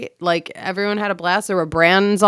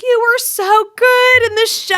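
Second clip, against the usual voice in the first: much higher, breathy-sounding star voice gushing; gushing Parker Posey; 14 semitones higher, 4 dB louder than usual. Retold or imitated. Actress hugging the fan backstage, high gushing impression. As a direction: coo it like a delighted actress meeting a fan. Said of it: "She's like".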